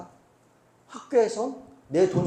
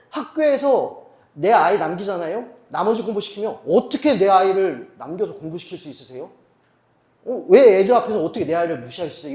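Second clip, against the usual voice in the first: mock-outraged complaint, louder in bursts; indignant parent; 7 dB louder than usual. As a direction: protest like an offended parent. Acted parent complaining to the school. (학교에 따지는 학부모 말투)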